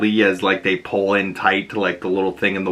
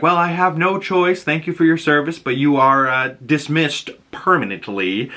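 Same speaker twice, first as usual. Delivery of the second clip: much higher, prim, curt dismissal; firing boss; 6 semitones higher than usual. Retold or imitated. Doctor Cooper dismisses Polaris in a much higher, curt voice. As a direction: fire her with polite finality. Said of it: "And Doctor Cooper's like".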